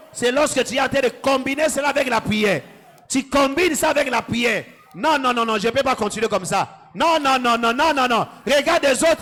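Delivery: rally the church like a commander; fervent preaching. Acted. Pastor drives the crowd to shout down their problems.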